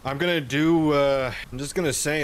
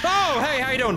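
squeaky high fake-friendly hello; high mock greeting; 12 semitones higher, 6 dB louder than usual. Gamer greeting the monster in a high falsetto.

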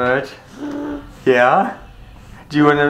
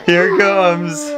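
sing-song; 6 semitones higher, much slower than usual. Real, not acted. Mother bringing medicine to toddler.

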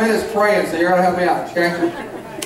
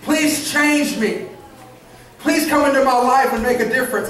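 acted pleading prayer; 3 semitones higher than usual. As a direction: pray it out earnestly, stretching each plea. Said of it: "you'll pray and say".

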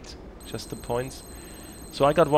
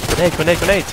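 grenade warning yell; 6 semitones higher, 10 dB louder, faster than usual. Real, not acted. Grenade thrown, warning teammates.

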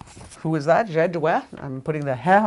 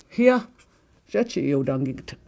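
calling out; 2 semitones lower, slower than usual. Shown as a demonstration. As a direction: snap the word out to call them over. Acted call to sit here.

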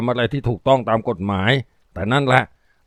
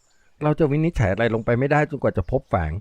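even, level voice. Acted. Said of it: "ด้วยเสียงเรียบๆ อำพรางความรู้สึกทั้งหมด".

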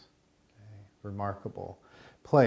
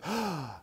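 gasp; 8 semitones higher, 4 dB quieter than usual. Retold or imitated. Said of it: "she just turns and she goes".

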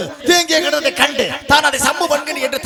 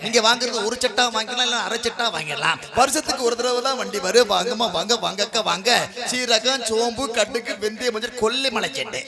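singsong street hawker. Acted. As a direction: cry your wares to the housewives. Spice seller hawker calls.

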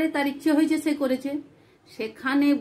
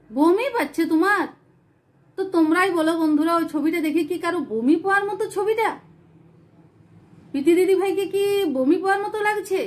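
mildly raised, indignant challenge; offended on a friend's behalf; indignant questioning; 4 semitones higher than usual. Real, not acted. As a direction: throw the question back at the commenters. Challenging commenters who insulted another vlogger.

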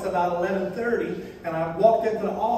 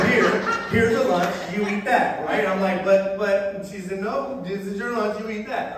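mock wife voice. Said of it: "she don't talk like that".

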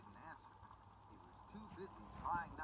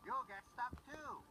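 foreman shouting over noise; 8 semitones higher, slower than usual. Acted. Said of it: "shouted the foreman".

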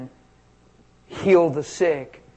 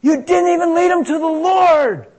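a higher, louder scolding preacher; old school evangelist; 14 semitones higher, 9 dB louder than usual. Retold or imitated. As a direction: call him out like an old-time evangelist. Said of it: "The old school evangelist says".

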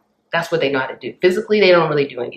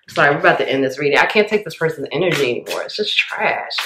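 fed-up rant; faster than usual. Real, not acted. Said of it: "and I don't even talk like that".

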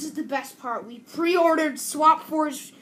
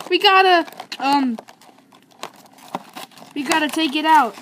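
mocking imitation; 6 dB louder than usual. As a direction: mimic her, loud and whiny. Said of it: "don't do that mimicking voice again".

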